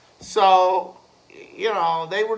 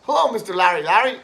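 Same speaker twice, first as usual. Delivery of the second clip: smart-ass greeting; 2 semitones higher, 5 dB louder, much faster than usual. Retold or imitated. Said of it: "I was being a smart ass".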